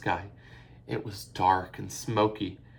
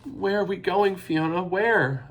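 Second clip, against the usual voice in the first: panting; 10 semitones higher, 6 dB louder than usual. A narrator's reading. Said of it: "Eilish panted".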